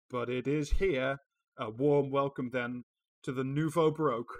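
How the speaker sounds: loud, bright game show announcer; game show host. Pretend. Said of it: "I read it like a game show host".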